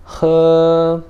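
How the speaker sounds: he high, loud and level; first-tone he. Shown as a demonstration. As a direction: hold he long on one high pitch. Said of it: "Primeiro tom também".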